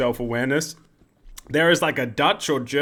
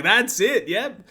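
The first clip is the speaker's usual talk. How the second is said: high, eager exclamation; excited approval; 7 semitones higher, slower than usual. Acted. Nigel feeling pop punk nostalgia, excited. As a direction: pipe up high as if won over.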